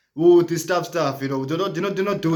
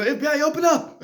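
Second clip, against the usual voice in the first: FBI raid shout; 7 semitones higher than usual. Retold or imitated. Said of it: "open up, like, you know".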